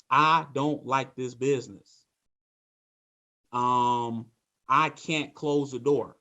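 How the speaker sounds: slow, defeated agent sighing out excuses; mock-gloomy salesman reporting a bad day; negative mental attitude. Shown as a demonstration. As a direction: sound beaten down and sorry for yourself. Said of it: "Here's what a negative mental attitude is".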